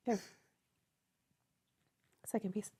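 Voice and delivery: talking through a burning mouthful; strained by spicy heat, mouth full; mouth full of hot food. Real, not acted. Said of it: "My mouth is really burning".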